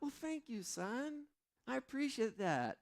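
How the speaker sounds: preening thanks, hammed up; mock proud dad. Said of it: "I'm like".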